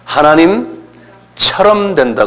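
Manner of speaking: spoken out big and slow, x0.5; 크게, 천천히 선포하듯; said aloud slowly. Shown as a demonstration. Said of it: "크게".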